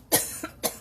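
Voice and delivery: dry cough. Real, not acted. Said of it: "sorry, my mouth is dry".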